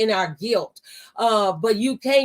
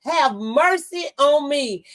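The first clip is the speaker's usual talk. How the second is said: raised, pleading cry from the roadside; 5 semitones higher than usual. Retold or imitated. Blind man's plea to Jesus retold on air, crying out. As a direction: call out for mercy, pitch swooping high. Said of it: "he heard, ... the ones that cried out".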